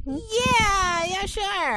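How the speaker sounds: high laughing yeah, sure. Real, not acted. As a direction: laugh through the words. Sarcastic laughing reply.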